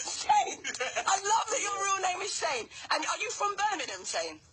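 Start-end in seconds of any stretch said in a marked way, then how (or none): 0.0-2.7 laughing. Real, not acted. Host cracks up at real name.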